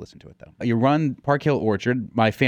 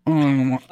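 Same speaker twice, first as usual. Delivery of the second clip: savoring mm; 2 semitones higher than usual. Shown as a demonstration. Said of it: "Let me see what happens when I actually do it".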